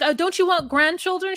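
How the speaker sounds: lifted high, pleading mom; mock high mom voice. Daughter's mother pleading for grandchildren, high and mock. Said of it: "she's like".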